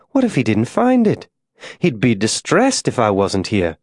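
ladylike lilt swooping high; politely decline, airy and high-pitched on the questions; fretful, genteel wife. Acted. Molly frets, then declines politely.

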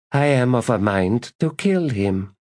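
lightly voiced languid lady; cool threat. Lady speaking coolly to priestess.

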